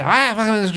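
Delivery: high, brief mock scream; imitated scream. Retelling a man tied to the bed screaming in French, mock scream. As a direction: imitate a patient yelling without really shouting. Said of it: "screaming and screaming in French".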